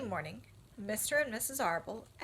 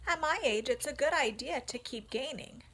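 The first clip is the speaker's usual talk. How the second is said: put-on young pig voice; 5 semitones higher than usual. Wilbur speaks.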